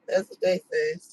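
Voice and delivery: mock high voice. Shown as a demonstration. Repeating the saying to the camera in a mock high voice. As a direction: toss the saying off in a silly high voice.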